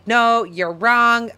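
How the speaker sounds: mildly annoyed, drawn-out contradiction; retold annoyance. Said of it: "I got pissed off".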